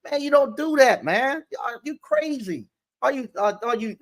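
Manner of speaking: hammed-up reprimand of a worker; mock angry scolding. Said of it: "he made me so mad".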